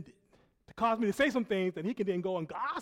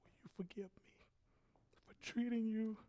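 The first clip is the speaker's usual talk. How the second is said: soft, low, halting apology; subdued, hesitant confession; humble apology; 4 semitones lower, 11 dB quieter than usual. Retold or imitated. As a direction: quietly ask forgiveness with careful pauses. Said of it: "He called me to his office".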